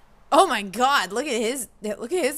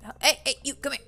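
whisper; 5 semitones higher, faster than usual. Real, not acted. Whispered call to a villager.

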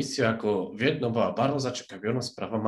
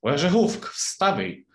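loud, high wake-up call; 7 semitones higher, 6 dB louder, slower than usual. A narrator's reading. Hatter and March Hare wake the Dormouse, calling out. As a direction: call the sleeper awake. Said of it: "krzyknęli Kubucznik i marcowi zając".

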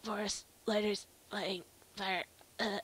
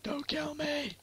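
mock plea; 3 semitones higher, slower than usual. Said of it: "you're just like".

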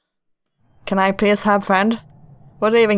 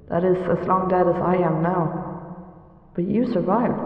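ghostly twin. Acted. Drowned twin accuses the girl, eerie and mournful. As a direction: speak as the drowned twin, hollow and hurt.

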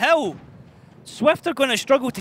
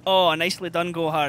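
put-on Scottish accent; 5 semitones lower than usual. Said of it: "That's almost as good as my Scottish accent".

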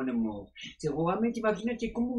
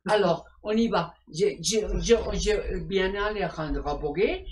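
higher, louder, theatrical French sign-off; gushing French farewell; 4 semitones higher, 6 dB louder than usual. Acted. Sexy doctor signing off the show, gushing in mock French. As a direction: blow kisses as you exit.

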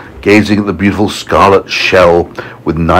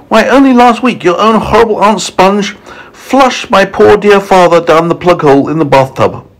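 high, indignant storybook spider; high, outraged lady spider; aggrieved Miss Spider; 12 semitones higher than usual. Acted. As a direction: accuse in a high-pitched, wounded voice. Spider tells of her father's death.

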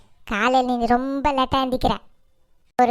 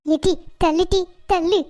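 frantic wailing; 4 semitones higher, 4 dB louder than usual. Acted. Mother rushes to poisoned son.

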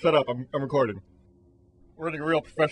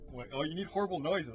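ordinary talk, nothing marked

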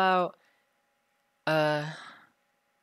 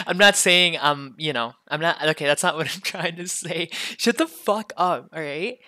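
loud, flustered angry protest; angry outburst; 5 dB louder than usual. Acted. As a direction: snap back angrily, shutting them up. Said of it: "just 'cause I sound like it".

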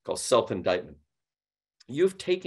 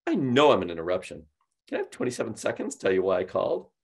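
playful, curious; faster than usual. Retold or imitated. Agent mimicking the caller's opener, playful and curious. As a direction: lift the voice up twice with a little chuckle. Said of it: "voice go up twice with a little chuckle".

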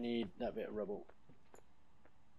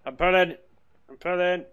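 straining effort; 10 semitones higher, 15 dB louder than usual. Real, not acted. Straining to pull a heavy object.

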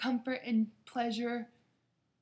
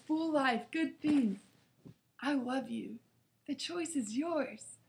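gentle loving God; 3 semitones higher than usual. Retold or imitated. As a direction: say it gently with a huge smile. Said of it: "very gently".

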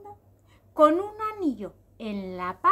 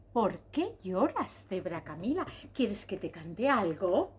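slow, slightly lower questioning voice; solicitous cicada; 5 semitones lower, 3 dB quieter than usual. Acted. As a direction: gently offer help, stretching the words. Cicada questions the crying zebra.

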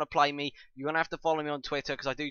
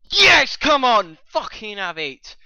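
high roar easing off; drawn-out celebratory yell; triumphant shout; 10 semitones higher, 13 dB louder, slower than usual. Real, not acted. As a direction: bellow slowly in triumph. Celebrates a goal in game.

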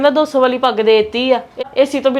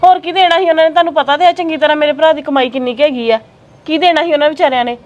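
indignant; 3 semitones higher than usual. Acted. Wife defends her brother's gift to husband, indignant. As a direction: push back hard for her brother.

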